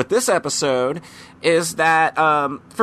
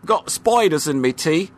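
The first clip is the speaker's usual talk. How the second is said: put-on Cockney accent. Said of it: "in a Cockney accent".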